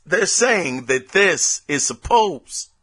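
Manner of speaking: hiccuping mid-sentence; hiccups. Real, not acted. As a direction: speak through hiccups. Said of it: "I'm hiccuping and everything".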